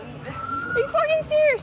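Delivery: slow, high outraged demand; angry disbelief. Real, not acted. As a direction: demand an answer, furious. Argument with Fran over lip.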